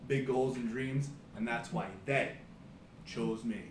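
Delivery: hyped-up pro wrestler promo; wrestling promo. Pretend. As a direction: brag like a wrestling heel on the mic. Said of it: "Are you ready to cut a promo?".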